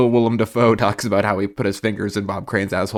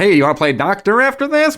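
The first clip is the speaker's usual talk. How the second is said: Vlasic stork voice; 7 semitones higher than usual. Retold or imitated. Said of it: "I just keep saying it like that".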